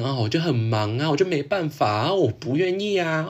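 imitating a late friend shrugging off blame; mock nonchalance. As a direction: play it off like it's no big deal, mockingly. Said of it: "他就装没事啊".

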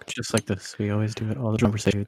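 hushed, right up on the mic; soft close-mic voice. Pretend. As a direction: speak softly into the mic. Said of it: "talk really close to our mics".

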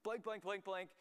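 high, loud mock outburst; cursing, disavowing. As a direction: act out an indignant cursing fit. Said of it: "Peter just starts cursing completely".

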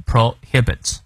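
prohibits with the stress on -HIB-; teacher's repeat of prohibits, weight after the first syllable; stress on later syllable. Shown as a demonstration. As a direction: say prohibits as pro-HIB-its, carefully. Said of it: "重音在后面".

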